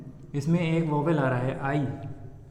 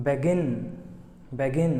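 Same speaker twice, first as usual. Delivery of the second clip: "begin" with the weight on GIN; be-GIN, the end held firm; stress on last syllable; much slower than usual. Shown as a demonstration. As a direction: lean on the second syllable of "begin". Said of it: "last वाले syllable पे जोर जा रहा हो".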